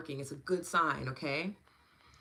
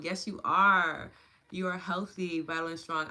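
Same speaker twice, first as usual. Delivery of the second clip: firm affirmation; 6 dB louder than usual. Real, not acted. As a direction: affirm them with full conviction. Affirms viewer back.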